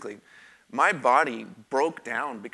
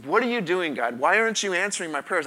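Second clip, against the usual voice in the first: retold whisper yell; 6 semitones higher, 5 dB louder than usual. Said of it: "I'm whisper yelling at God".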